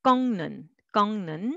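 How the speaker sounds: 꺾는 said as one word with ng; 꺾는 nasalized; linked pronunciation. Shown as a demonstration. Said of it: "but together".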